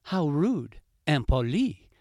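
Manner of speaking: "How rude, impoli" in the fox's indignant voice; offended fox. Acted. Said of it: "thought La Renarde".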